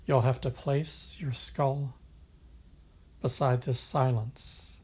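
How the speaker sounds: measured poetry recital, long pauses between phrases; unhurried, even poem delivery with spacious breaks; poem reading. Acted. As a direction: read it as verse, letting each line settle. Reads a poem aloud.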